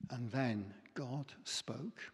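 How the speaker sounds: hushed whisper, slow. Shown as a demonstration. Preacher telling how God spoke, whispered. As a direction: breathe it out softly. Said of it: "he spoke in a still, small voice, almost a whisper".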